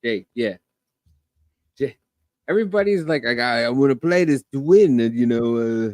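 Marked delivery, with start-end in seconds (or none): 3.2-5.0 lightly put-on Boston accent. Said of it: "in his Boston accent".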